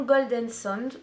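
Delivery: "Golden Sand" said as gol-DENN SOND in a heavy French accent; French-accented English. Real, not acted. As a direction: read the English name "Golden Sand" the French way, without trying for English. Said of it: "mon accent est toujours aussi pourri". ("Golden Sand" prononcé avec un fort accent français, sans effort d'anglais)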